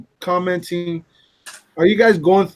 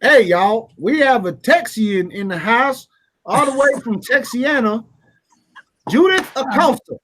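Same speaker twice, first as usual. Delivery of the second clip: mock Texan announcer; 5 semitones higher than usual. Shown as a demonstration. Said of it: "That's not how Texans talk".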